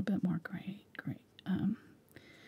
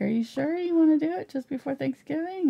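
higher-pitched retold "are you sure?" query; doubtful questioning; 9 semitones higher than usual. Retelling her doubtful question to son.

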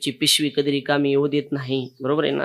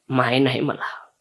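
put-on grieving boy; 3 semitones lower, slower than usual. Orphan boy tells conductor.

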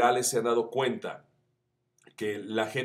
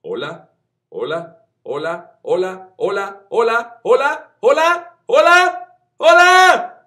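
each hola higher and louder, ending in a high shout; rising scale; 11 semitones higher, 14 dB louder, much slower than usual. Shown as a demonstration. Vocal coach showing YouTube friends a scale from mid tone to a high shout. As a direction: climb the tonal scale from mid to top. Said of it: "Lo mismo ocurre con la escala tonal".

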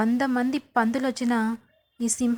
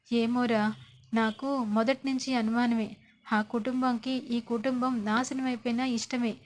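softer, a touch of tearful lament; lightly voiced weeping mother-in-law; understated sorrowful complaint, fading softer; mild acted crying; 4 dB quieter than usual. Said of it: "ఏడ్చేస్తూ ఉంటుంది".

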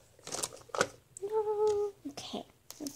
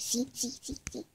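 whisper; 3 semitones lower than usual. Pretend. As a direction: whisper it close.

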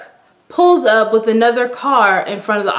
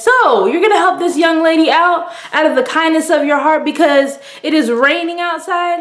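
higher playful prodding; mechanic teasing; 5 semitones higher than usual. Retold or imitated. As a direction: nudge him with a raised voice.

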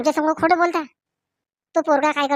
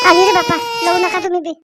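louder tearful plea; 3 semitones higher, 4 dB louder than usual. Acted. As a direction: speak through real sobs. Mother with crying children, leaving. (रडवेल्या आवाजात)

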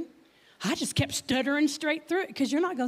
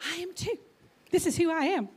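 higher-pitched mock defiance; defiant retort; 5 semitones higher, faster than usual. Wife talking back to her husband over jeans, mock defiant. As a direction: answer back stubbornly, acting out the spat.

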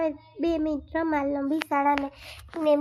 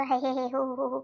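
mock chuckle. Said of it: "પાછા દોસ્તાર સામે કહો".

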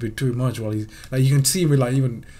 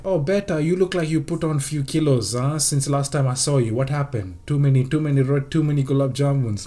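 put-on Indian auntie accent. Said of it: "They'll literally just be like".

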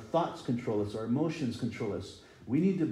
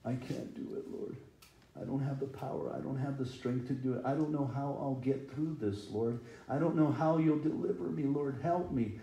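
mock weeping; 5 dB quieter than usual. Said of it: "They cried".

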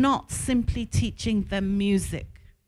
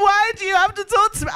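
retold tearful plea; 8 semitones higher, 4 dB louder, faster than usual. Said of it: "I was literally crying".

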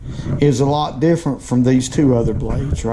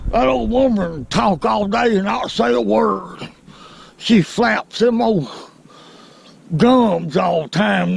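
lips barely moving, higher voice; talking with mouth closed; 6 semitones higher than usual. Shown as a demonstration. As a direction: talk without moving your lips. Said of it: "It's hard to talk without moving your lips".

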